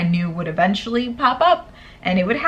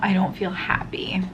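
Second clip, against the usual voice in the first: whispered, deflated; sad whisper. Real, not acted. Student confessing to viewers, sad whisper. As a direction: whisper it like an admission.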